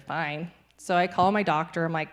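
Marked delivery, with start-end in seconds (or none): 0.0-0.5 grudging fine. Retold or imitated. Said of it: "that's really my attitude of it".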